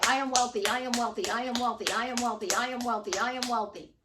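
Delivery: rhythmic mantra on one repeated falling tune; repeated affirmation. Retold or imitated. Tony Robbins reciting to himself while running, steady chanting. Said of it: "he would say".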